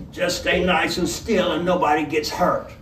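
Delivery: lightly voiced menacing robber; a hint of a gruff robber, easy threat. Robber holds up the inn.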